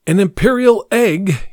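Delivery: mock shout from a narrator; shouted announcement. A narrator's reading. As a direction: announce it loudly to the ballroom. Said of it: "he shouted".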